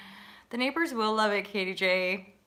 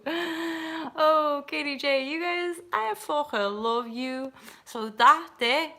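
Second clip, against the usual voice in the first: higher, put-on Liverpool accent; shitty Scouse accent; 7 semitones higher, 3 dB louder, slower than usual. Shown as a demonstration. Showing viewers how they talk in Liverpool, Scouse accent. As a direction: do a rough attempt at Scouse. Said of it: "that's, like, a shitty Scouse accent".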